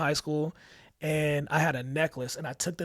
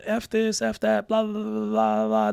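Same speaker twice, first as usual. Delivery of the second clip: higher, mocking rattle of cusswords; mock cussing kids; 7 semitones higher, 5 dB louder than usual. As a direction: brush it off as rowdy teens. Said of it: "the kids are cussing up a storm".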